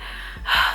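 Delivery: long airy exhale; soft put-on sigh; acted weary sigh. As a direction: let out an overwhelmed breath. Reacting to a painfully slow drive.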